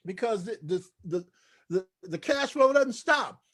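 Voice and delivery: playfully overcome, stumbling over the words; mock choked up. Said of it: "getting all choked up".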